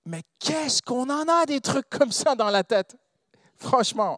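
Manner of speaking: drawn-out opening, pitched well up; impassioned preaching. Real, not acted. Preacher challenging congregation about thoughts in their heads, impassioned.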